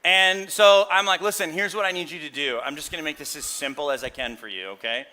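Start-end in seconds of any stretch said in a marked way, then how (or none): 1.2-5.1 mock-patient husband laying down the law; a hint of a bossy husband; condescending tone. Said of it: "You hearing the tone?".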